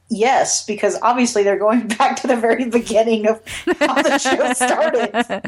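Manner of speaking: lightly sarcastic agreement. Real, not acted. Co-host answering whether the episode title fit, sarcastic. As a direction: say yes as if it's too obvious, with mild sarcasm. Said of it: "This is me being sarcastic".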